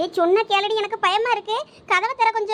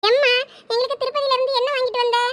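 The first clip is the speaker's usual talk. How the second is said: put-on a higher, coaxing kid's voice asking for a treat; pestering child; 5 semitones higher than usual. Child pestering mother back from Tirupati, high and wheedling. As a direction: whine at mum like a kid wanting presents.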